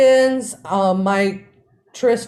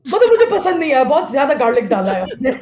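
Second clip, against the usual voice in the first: raised, loud exasperated Hindi complaint; 5 semitones higher, 3 dB louder, faster than usual. Retold or imitated. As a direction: complain louder and higher to mom. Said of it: "Maine kaha".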